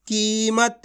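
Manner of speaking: कीमत slowly, with a long ee in की; blended sounding-out. Shown as a demonstration. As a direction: join the sounds of कीमत, stretching the first vowel. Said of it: "एक अक्षर का उच्चारण करके".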